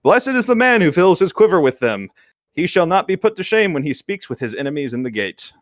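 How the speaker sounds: mock-solemn Bible recitation; measured, declaimed chapter and verse; solemn scripture reading. A narrator's reading. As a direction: intone the verse like a church reading. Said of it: "Dumbledore referenced solemnly".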